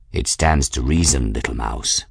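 low-pitched cat voice, lofty; condescending cat. Acted. Raoul the cat answering Bridget, condescending. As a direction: drop low for the superior cat.

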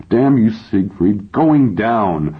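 acted tearful outburst; crying outburst. A narrator's reading. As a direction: curse him slowly through tears, pitch climbing. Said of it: "now I'm really crying".

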